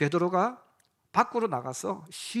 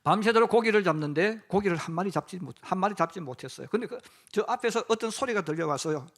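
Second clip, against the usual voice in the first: ordinary delivery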